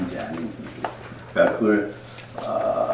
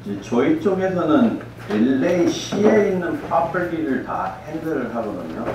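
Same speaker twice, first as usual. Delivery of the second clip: Korean American accent; 4 dB quieter than usual. Real, not acted. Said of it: "제가 한국말 좀 서툴 수 있으니까".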